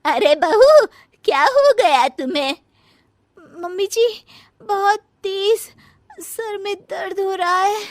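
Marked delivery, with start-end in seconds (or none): 3.6-7.8 higher, whiny put-on pain; young bahu faking pain to her mother-in-law; faking a headache. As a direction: play up the headache for sympathy. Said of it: "नाटक".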